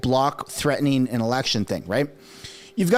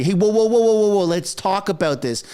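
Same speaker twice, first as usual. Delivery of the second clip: mock panicked backpedaling; 3 semitones higher than usual. Guilty person stopping a call to the cops, mock panic. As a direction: play at hastily talking someone down. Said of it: "that is exactly how the Liberals are acting".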